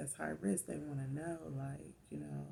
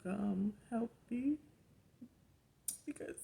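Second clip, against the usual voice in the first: pleading; 9 semitones higher than usual. Retold or imitated. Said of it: "I need you".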